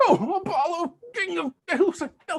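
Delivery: pained cry, crying out in pain. Taking his turn of blows, a character cries out to Apollo in pain. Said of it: "He felt that".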